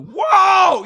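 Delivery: high, loud exclaimed whoa; shocked whoa. Real, not acted. Host reacting to a kid asking what Christmas is, shocked. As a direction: react in real disbelief.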